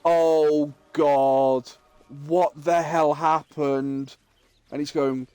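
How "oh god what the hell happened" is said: mock despairing groan, drawn out slowly; retold despair. Managing director despairing over what Wolfie has done, mock dismay. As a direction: imitate a boss slowly despairing. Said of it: "head in his hands going".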